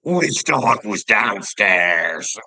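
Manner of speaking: loud, slow put-on voice of the son; son's alarmed question. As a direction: drag it out like a fretting kid. Son's panicked question retold.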